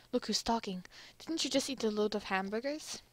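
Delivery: put-on a weak stab at a French accent; terrible French accent. France needles America about hamburgers, bad French accent. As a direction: retort in a badly faked French accent. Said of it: "that's a terrible French accent".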